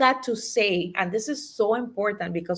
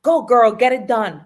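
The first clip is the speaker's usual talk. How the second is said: cheering herself on; 8 dB louder than usual. Retold or imitated. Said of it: "it should sound like".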